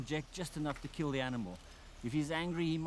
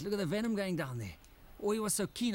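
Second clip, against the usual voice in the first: excited; 7 semitones higher, 3 dB louder than usual. Real, not acted. Snake bites flask eagerly.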